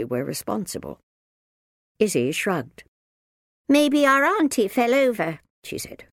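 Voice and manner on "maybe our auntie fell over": put-on cheeky young girl. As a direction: offer it innocently.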